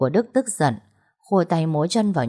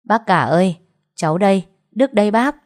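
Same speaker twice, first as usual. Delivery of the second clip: calling out; 3 semitones higher, 5 dB louder than usual. Acted. Nephew calling out to uncle.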